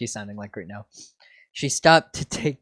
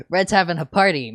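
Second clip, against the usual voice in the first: Meowth voice; 5 semitones higher, 6 dB louder, faster than usual. Acted. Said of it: "Meowth said".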